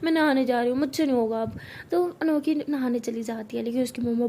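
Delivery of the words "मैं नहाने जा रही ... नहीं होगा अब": higher, louder whine; whiny pleading. Acted. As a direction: beg off the chore dramatically. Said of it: "अनोखी कहती".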